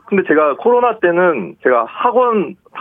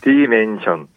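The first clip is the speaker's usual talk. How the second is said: lightly mimicked AI voice; a hint of synthetic AI diction on 디멘션; AI pronunciation; 2 semitones lower, slower than usual. Shown as a demonstration. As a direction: say it evenly like a text-to-speech voice. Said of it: "에이아이 발음으로 들어볼게요".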